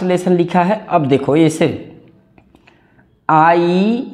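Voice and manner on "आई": slow dictation. Shown as a demonstration. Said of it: "मेरे साथ दोहराओ".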